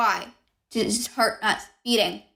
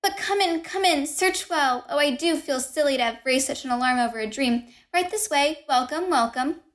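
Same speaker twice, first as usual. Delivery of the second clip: easy manner; 4 semitones higher than usual. Acted. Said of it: "My easy manner".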